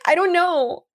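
high, mock-helpless protest; hammed-up clueless reply; imitated helpless girl. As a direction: pitch it way up as a flustered girl. Acting Jenny answering an accusation.

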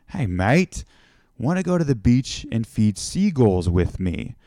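lightly attempted Australian accent; friendly Aussie invitation, accent lightly put on. Aussie local inviting a visitor to the beach, light Australian accent. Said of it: "sorry if this accent isn't working out".

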